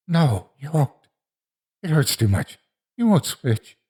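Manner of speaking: high voice, as if between tears; tearful. A narrator's reading. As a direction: protest through tears. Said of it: "Between tears".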